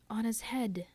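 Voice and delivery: whispered echo of "On his head", high and hollow; ghostly echo. Acted. The dim hall echoing Gabriel, whispered. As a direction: breathe it back like a distant echo. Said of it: "echoed the dim hall".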